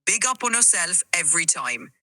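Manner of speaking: easygoing Jamaican patois; stronger Jamaican accent. Shown as a demonstration. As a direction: lay on the Jamaican flavor. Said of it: "give him a little more flavor".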